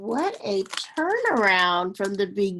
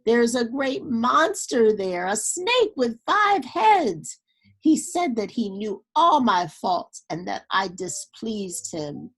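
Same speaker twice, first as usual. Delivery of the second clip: louder, pitch leaping up on the snake; frightened outburst; 2 semitones higher, 4 dB louder than usual. Acted. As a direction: blurt out the terror of the monster. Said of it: "she cried hysterically".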